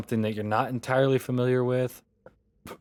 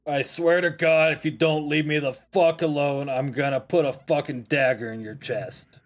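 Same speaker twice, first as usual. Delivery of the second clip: higher-pitched, fed-up warning; raised pitch, easing off toward the end; exasperated threat; 4 semitones higher than usual. Acted. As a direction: warn off whoever keeps waking you. Woken NPC threatens visitor.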